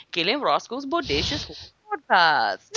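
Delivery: lightly voiced, slow show-intro impression; a mild imitation of their podcast intro, drawn out; Gil and Roscoe impression. Host imitating the other podcast's hosts announcing their show, lightly voiced. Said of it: "that one I nail".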